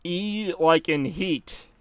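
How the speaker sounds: "E" drawn out slowly as in heat; stretched E sound. Shown as a demonstration. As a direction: hold the "E" long, like the vowel of heat. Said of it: "take the E out of heat".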